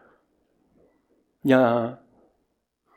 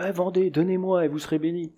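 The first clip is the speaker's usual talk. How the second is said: higher, wheedling church fundraiser; lightly mocking sales pitch, raised pitch; mock greedy preacher; 4 semitones higher, 3 dB quieter than usual. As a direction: imitate a preacher pressing for donations. Mimics money-grabbing preachers.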